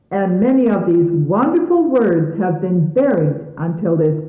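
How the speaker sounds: formal radio narration over music; stately announcer voice introducing a sermon; announcer read. Acted. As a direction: read it like a solemn broadcast introduction.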